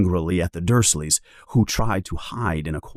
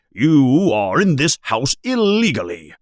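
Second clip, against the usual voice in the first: Vernon's raised blustering voice; huffy uncle, a little louder; mild mock yell; 5 semitones higher, 4 dB louder than usual. Uncle Vernon ordering the giant out, raised voice. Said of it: "yells Uncle Vernon".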